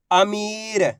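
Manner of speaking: "अमीर" with a long मी; drawn-out vowel. Shown as a demonstration. Teacher blending letters for learners, "अमीर" with stretched ई. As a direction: hold the ई in "अमीर", falling at the end. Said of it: "बस इसी तरीके से इनको पढ़ा जाता है".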